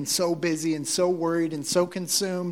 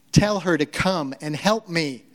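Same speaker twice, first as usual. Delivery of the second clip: emphatic, mildly snarky order; bossy command from Martha; 3 dB louder than usual. Acted. Martha ordering Jesus to send her sister, commanding. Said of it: "she gives a command".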